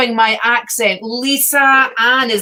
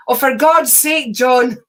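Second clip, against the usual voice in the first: exasperated shout; 3 dB louder, slower than usual. Real, not acted. Exasperated at partner off-screen.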